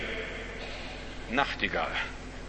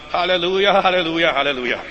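nightingale's halleluja; 2 semitones higher, faster than usual. Retold or imitated. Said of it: "So singt sie wahrscheinlich".

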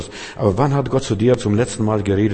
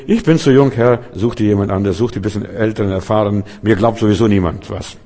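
put-on young prophet; 4 dB louder than usual. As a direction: plead you're too young. Young prophet voiced making excuses. (ein Hauch jammernder junger Prophet, lauter)

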